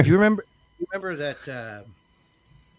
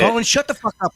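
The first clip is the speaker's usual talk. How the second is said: higher, louder outburst; playful yell; 9 semitones higher, 4 dB louder than usual. Real, not acted. Joking yell at Colin to shut up. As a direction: snap at Colin, laughing. Yelling at a friend.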